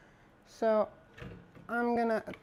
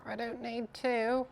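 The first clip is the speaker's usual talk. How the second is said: put-on British accent; 4 dB quieter than usual. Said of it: "I went British for a second".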